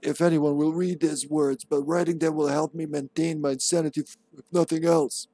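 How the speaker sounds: lightly voiced memo writer; Dario. Gamer reading a dead man's memo aloud, lightly in character. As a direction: read it in a slight character voice. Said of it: "That's kind of Dario's voice".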